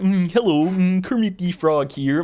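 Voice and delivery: light, lightly voiced Kermit impression; Kermit the Frog. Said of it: "I do a good Kermit".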